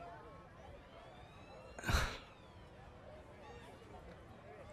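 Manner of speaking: long unvoiced exhale; breathy sigh. Pausing over foolish things, a breathy sigh. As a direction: let out a slow sigh. Sigh while searching for example.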